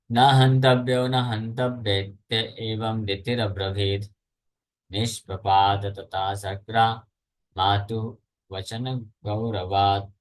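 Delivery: slow, measured scripture chant; Sanskrit verse recitation. Acted. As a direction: recite the shloka with drawn-out syllables.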